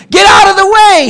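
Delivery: high, loud honking yell; yelling sheep. Acted. Sheep in a Jeep yells at the duck, loud and high. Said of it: "he yells with a beep".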